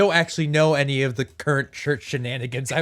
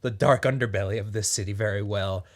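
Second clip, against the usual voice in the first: lightly southern city vagrant; southern accent. Acted. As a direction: keep a faint southern lilt. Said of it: "still talking in this accent".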